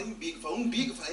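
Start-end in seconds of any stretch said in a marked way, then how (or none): 0.0-0.4 lightly voiced man, matter-of-fact "Umbigo"; understated acted reply; suitor's answer. 0.6-0.9 higher, louder questioning "Umbigo?"; acted incredulous repeat; shocked echo. Her shocked echo of his answer.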